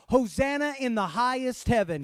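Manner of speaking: high, loud "Hosanna in the highest heaven"; shouted praise. Shown as a demonstration. Pastor leads the last shout of the Palm Sunday verses. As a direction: ring it out with all you've got. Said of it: "And shout this last one".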